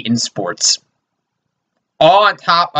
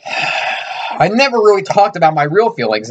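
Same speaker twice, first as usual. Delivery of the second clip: higher, slow, hammed-up sincerity; mock heartfelt confession; 5 semitones higher than usual. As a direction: fake a tearful big reveal, slowly. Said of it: "That was a joke".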